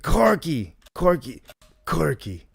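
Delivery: calling a name in a Brooklyn impression, each call falling; Dawn. Shown as a demonstration. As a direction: repeat the name as a Brooklyn character calling someone. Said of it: "That's my Dawn impression".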